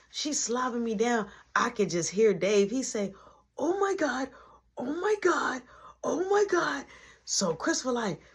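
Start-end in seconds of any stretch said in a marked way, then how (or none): 3.6-6.8 high, breathy panicked repeats, last one whispered; panicked oh my God. Retold or imitated. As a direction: squeak it out in mock panic. Dave panicking, quoted.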